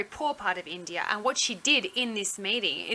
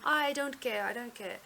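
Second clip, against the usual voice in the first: attempted Indian accent; 3 semitones higher than usual. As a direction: imitate the doctor's Indian accent, imperfectly. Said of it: "she's in her accent".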